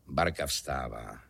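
low, slow echo; hluboká ozvěna. A narrator's reading. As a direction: drop the pitch and drag out the echo. Ozvěna předchozí věty hlubším hlasem. (hluboká, pomalá komická ozvěna)

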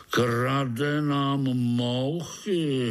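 slow drawn-out mild yell; hammed-up old spider's slow mild holler; mock holler. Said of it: "hulákal starý pavouk".

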